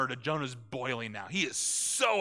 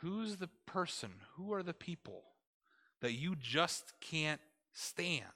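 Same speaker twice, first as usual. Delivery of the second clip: whispered aside; 3 semitones higher, 6 dB quieter than usual. Real, not acted. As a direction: lean in and whisper the question. Preacher drops to a whisper.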